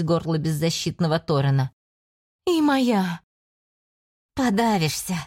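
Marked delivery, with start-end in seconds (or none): 2.5-3.2 greedy demon voice. Acted. Demon claims Torren. 4.3-5.2 growl. Acted. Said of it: "прорычала Листера".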